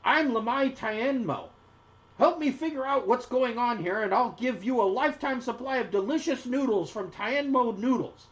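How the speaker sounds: high-voiced merchant making an offer; gnome noodle seller. A narrator's reading. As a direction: win the strangers over in a high voice. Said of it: "she says".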